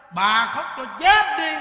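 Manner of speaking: slow, loud, blunt order; slow forceful command. Retold or imitated. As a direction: bark it out slowly. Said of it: "Những Đức nói". (ra lệnh chậm, to, dứt khoát)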